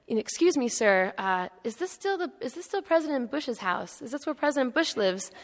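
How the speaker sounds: lightly voiced old gentleman, politely unsure; timid old man. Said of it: "an older gentleman who's come by".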